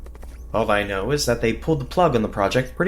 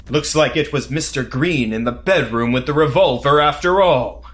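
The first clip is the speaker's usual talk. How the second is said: cool one-liner; 4 dB louder than usual. Acted. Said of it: "I could have said something cool there".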